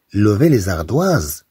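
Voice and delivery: slow, clear classroom French; slow dictation pace; slow teaching read. Shown as a demonstration. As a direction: spell it out slowly for pupils. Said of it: "Levez les doigts. Ou bien".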